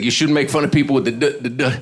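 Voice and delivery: mild mock stammer stuck on D; stuttered lecture. Man scolding the comic, mock stutter. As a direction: lecture him but stall on the D. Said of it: "he's lecturing me".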